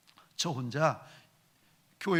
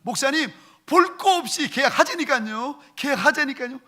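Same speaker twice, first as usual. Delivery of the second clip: higher, louder insistent urging; pushy deacon; 9 semitones higher, 7 dB louder than usual. Retold or imitated. Deacon pushing the pastor to sign, insistent and loud. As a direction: press him hard to sign the lease now.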